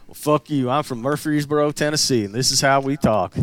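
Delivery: put-on stock redneck accent; defiant Tennessee redneck in a generic twang. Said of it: "the redneck voice is the same everywhere".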